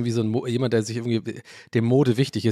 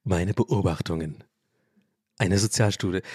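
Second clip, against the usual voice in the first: pompous book title; 6 semitones lower than usual. Pretend. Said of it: "guck so ganz bedeutungsschwanger".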